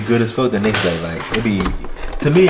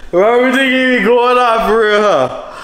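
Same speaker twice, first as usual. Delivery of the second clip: high, loud words through laughter; laughing while talking; 13 semitones higher, 5 dB louder than usual. Real, not acted. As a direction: talk while still cracking up. Still laughing at husband.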